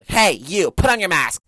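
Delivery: mild mock scolding shout; mock scolding call. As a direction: call out a stranger, half-mock. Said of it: "the person that's gonna be like".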